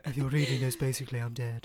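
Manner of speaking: put-on frail old lady voice. Imitating the duchess voice.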